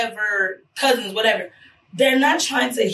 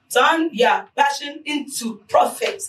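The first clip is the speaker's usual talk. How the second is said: slow, raised, shouted slogan; loud slogan; 4 semitones higher, slower than usual. Shown as a demonstration. Urging listeners, shouted slogan. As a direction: hammer the motto home.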